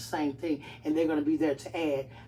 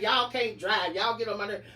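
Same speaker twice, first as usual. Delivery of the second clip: mock road rage; 2 semitones higher, 5 dB louder than usual. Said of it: "I be like".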